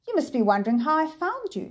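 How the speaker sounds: polite words with menace beneath; politely menacing. Acted. Professor voice.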